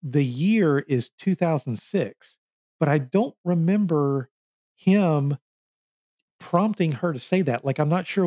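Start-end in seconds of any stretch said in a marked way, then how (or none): 0.0-2.4 "the year is two thousand six" spelled out slowly; slow, deliberate stress on "year" and "two thousand six"; retold emphasis. Podcaster retelling her point about the year, slow emphasis. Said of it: "a real point of emphasizing".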